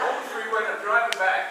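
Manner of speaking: restarting the phrase still laughing. Real, not acted. Restart after laughing fit.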